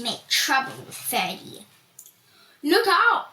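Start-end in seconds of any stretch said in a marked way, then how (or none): 2.6-3.3 gruff bully warning, louder and higher; Too Tall barking. A narrator's reading. Bully bumping into Ferdy on purpose, gruff loud warning. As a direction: shove the words at him like a bully. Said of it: "said Too Tall".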